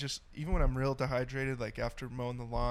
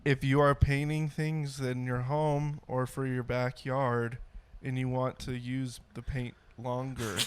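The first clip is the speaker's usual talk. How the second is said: unenthusiastic ad read. Pretend. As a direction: plod through the sales pitch. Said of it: "lack of enthusiasm in that was just stellar".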